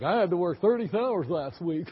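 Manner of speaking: lightly mocked complaining youngster; whiny young worker. Preacher mocking young people complaining about work, light whine. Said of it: "some of these young people will say something like".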